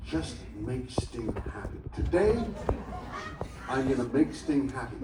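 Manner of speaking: muttered mirror pep talk; talking himself into patience; self pep talk. Retold or imitated. Drummer to his mirror each morning, mock pep talk. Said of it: "I'm looking at the mirror and I'm saying".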